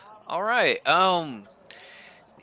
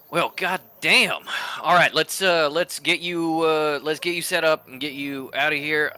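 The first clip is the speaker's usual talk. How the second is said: gruff Nine; 4 semitones higher, 4 dB louder than usual. Acted. Nine rounding up the strays, gruff and loud. NPC Nine steps in to help.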